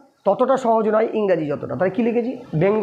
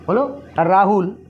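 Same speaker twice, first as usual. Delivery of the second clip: slow dictation; much slower than usual. Shown as a demonstration. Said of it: "teacher dictating the word order".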